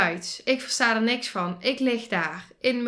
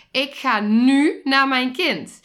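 determined; 3 semitones higher, 6 dB louder, slower than usual. Retold or imitated. Inner resolve, lioness moment.

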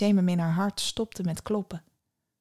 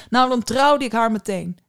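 louder, eager exclamation; exclaiming; 3 semitones higher, 6 dB louder than usual. A narrator's reading. Prince dreaming of the girl who saved him, exclaiming. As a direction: declare it out loud, eagerly. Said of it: "riep hij dan uit".

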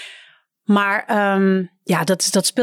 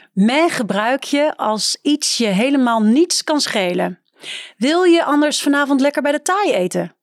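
reading aloud. Acted. Reads book excerpt aloud.

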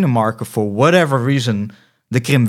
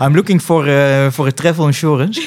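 put-on English with a Dutch accent, pitched up slightly; 3 semitones higher, 4 dB louder than usual. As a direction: imitate yourself asking in Dutch-accented English. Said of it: "mijn Nederlands accent". (Engels met Nederlands accent)

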